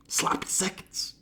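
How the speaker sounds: whispered in disgust. Real, not acted. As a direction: breathe it out, appalled.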